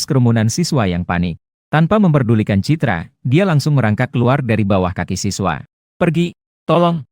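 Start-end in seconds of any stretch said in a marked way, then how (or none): 6.0-7.0 high, frantic cry to get away; terrified yell for help; desperate scream for help. Acted. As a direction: shriek it out in panic. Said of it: "Dia berteriak sekuat tenaga".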